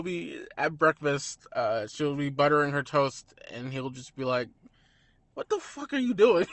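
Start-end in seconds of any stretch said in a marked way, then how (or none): 5.3-6.5 higher, louder outraged snap, half laughing; mock angry snap. Retelling a film's breakfast scene, mock outraged snap. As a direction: snap at her like a fussy artist. Character snaps at her at breakfast.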